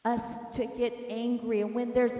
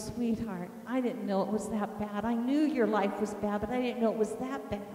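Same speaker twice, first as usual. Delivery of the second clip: lower, soothing retold voice; tender husband; 3 semitones lower than usual. Husband hugging his wife the next morning, tender. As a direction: gently console in a retold embrace. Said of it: "hugged me and he goes".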